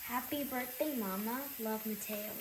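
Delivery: reading a love letter. Real, not acted. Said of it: "Here's the letter I gave you".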